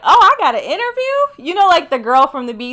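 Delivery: high, loud squeal of surprised joy; thrilled disbelief. Retold or imitated. Retelling her interview offer, high thrilled squeal. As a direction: squeal it like you can't believe your luck. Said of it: "I'm like".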